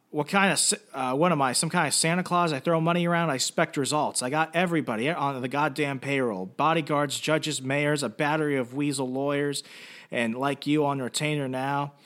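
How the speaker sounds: Guido Bertinelli yelling. Retold or imitated. Father berates his hired people over missing daughter, mild mock yelling. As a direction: rail at the staff, acted at part strength. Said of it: "constantly yelling at them".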